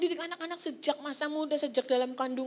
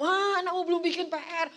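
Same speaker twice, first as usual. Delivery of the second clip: louder, insistent call, stressing Ma each time; husband reporting to wife; 3 semitones higher, 7 dB louder than usual. Retold or imitated. Husband passing child's problems to wife, loud insistent calls. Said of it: "Pak Eri berkata".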